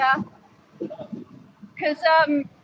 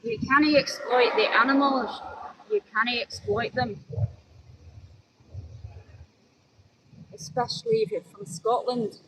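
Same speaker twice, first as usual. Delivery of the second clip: tentative attempt at a Scottish accent; Kenny's Scottish accent; 4 dB quieter than usual. Shown as a demonstration. Streamer tries a Scottish accent to stop animal exploitation, tentative Scottish impression. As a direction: have a halting, unsure go at Scottish. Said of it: "do an impression of, of Kenny, my friend Kenny, um, Scottish".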